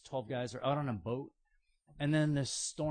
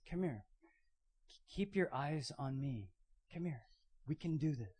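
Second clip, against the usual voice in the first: gentle encouragement; 6 dB quieter than usual. Retold or imitated. Jesus encouraging Peter in storm.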